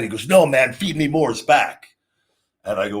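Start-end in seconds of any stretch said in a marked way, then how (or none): 0.3-1.9 mildly excited retelling, pitch raised. Retold or imitated. Retelling Joey hailing the wrestler's return, excited. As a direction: imitate a colleague's excited insistence, a bit higher. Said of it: "Joey was excited".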